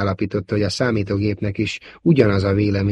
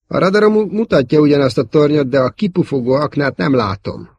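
worried; 6 semitones higher, 5 dB louder than usual. A narrator's reading. Wedge worried in trench.

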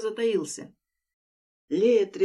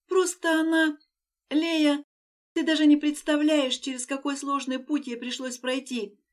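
passionate; 6 semitones higher, 4 dB louder than usual. Acted. Anya defends her friend passionately.

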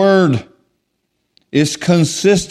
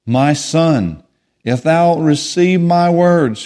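scripture reading; slower than usual. Acted. Reads Proverbs two aloud.

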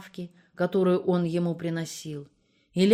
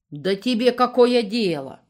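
put-on indignant old woman snapping, louder; 5 semitones higher, 8 dB louder than usual. A narrator's reading. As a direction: bristle at the nosy neighbour. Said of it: "возмутилась Макеевна". (возмущённо, как сварливая старуха)

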